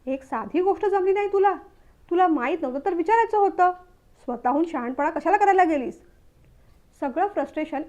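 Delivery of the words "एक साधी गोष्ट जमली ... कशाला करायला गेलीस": higher, scolding outburst; furious. Acted. Husband scolding wife over the coat, angry outburst. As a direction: let the frustration burst out at her. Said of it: "मग मात्र तो संतापला".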